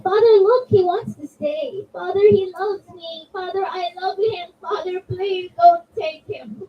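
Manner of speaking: put-on cling to the baby and beg your father; desperate little girl. Daughter begging to keep baby.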